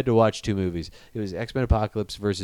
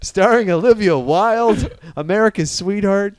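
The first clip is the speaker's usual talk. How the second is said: mock announcer billing; 8 semitones higher, 5 dB louder than usual.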